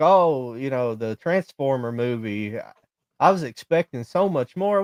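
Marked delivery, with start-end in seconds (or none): none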